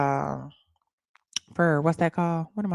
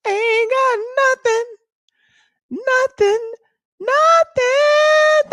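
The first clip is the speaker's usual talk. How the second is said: much higher, drawn-out shout of dismay; hyped wailing; 5 dB louder, much slower than usual. Real, not acted. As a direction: wail it louder each time to rally viewers. Hyping viewers to reach goal.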